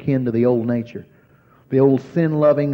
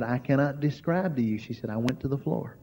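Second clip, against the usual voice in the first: hushed, overwhelmed; awed and very soft; trembling voice; 10 dB quieter than usual. Retold or imitated. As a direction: friend overwhelmed, softly trembling. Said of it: "her voice was trembling".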